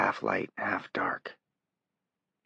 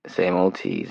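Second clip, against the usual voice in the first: Johnny agreeing; 5 dB louder, slower than usual. Acted. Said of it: "he agreed".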